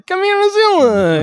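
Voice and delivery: high, loud hammed-up Jewish accent; mock Jewish accent. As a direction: call out in a put-on Jewish accent. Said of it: "that's my Jewish accent".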